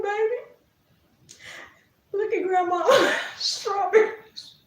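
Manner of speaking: put-on grandma showing a toddler a ladybug, high and coaxing; sweet grandma coaxing. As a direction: coax the baby to look, sweetly.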